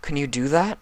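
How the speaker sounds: lightly voiced young dragon, weary and bitter; a hint of a tired, hurt boy; Spike voice.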